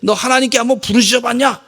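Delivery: preacher voicing God challenging complainers; God rebuking. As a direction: press the listener with each question. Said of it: "이러시는 것 같아".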